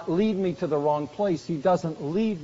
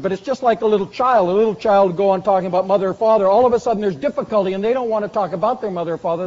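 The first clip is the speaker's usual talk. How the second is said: louder, faster preaching push; preacher pressing the point, louder and faster; building urgency; 6 dB louder, faster than usual. Real, not acted. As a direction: drive it forward with rising energy. Animated illustration of child.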